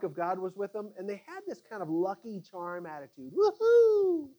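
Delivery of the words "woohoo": high, loud whoop of a cocky crowd; cheering crowd. Acted. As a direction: whoop like fans at a pep rally. Israelites cheering with lucky charm.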